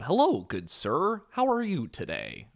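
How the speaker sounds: hammed-up posh gentleman; mock proper English. Shown as a demonstration. Streamer mocks proper English against chill slang. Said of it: "extremely proper English".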